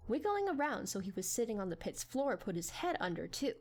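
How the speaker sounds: ordinary delivery, nothing marked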